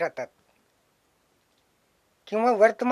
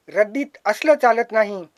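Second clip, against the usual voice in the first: a hint of a blunt dealer, said out loud; scrap dealer's retort; 4 dB louder than usual. Scrap dealer brushing off the poet's notebook, lightly voiced. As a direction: throw his verdict back at the poet.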